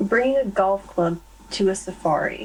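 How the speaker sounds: normal talking voice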